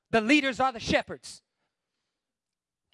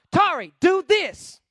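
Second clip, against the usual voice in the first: loud, high, slow command; firm, punched-out instruction; direct order; 6 semitones higher, 10 dB louder, slower than usual. Acted. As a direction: bark it as a flat order.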